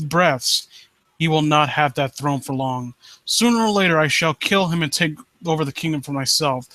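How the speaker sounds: low, brooding villain read; a hint of a vengeful prince reading his vow; dramatic story reading. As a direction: read it like a scheming usurper, low and steady.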